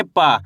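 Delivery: पा with unaspirated p, falling low; letter-sound demo. Shown as a demonstration. Teacher answers what we read, letter-sound demo. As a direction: draw out पा with no puff. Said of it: "क्या पढ़ेंगे?".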